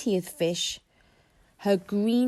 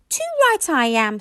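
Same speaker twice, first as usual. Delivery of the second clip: grumpily; 7 semitones higher, 5 dB louder than usual. A narrator's reading. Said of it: "said Toothless grumpily".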